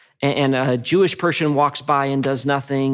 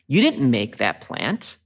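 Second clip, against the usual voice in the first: retold God's rebuke; 5 semitones higher than usual. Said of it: "God kind of does the ultimate mic drop".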